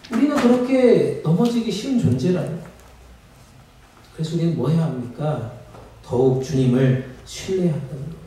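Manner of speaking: ordinary talk, nothing marked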